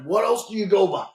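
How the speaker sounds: mock irritated officer; exasperated officer. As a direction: press him for a nickname. Officer repeating the demand.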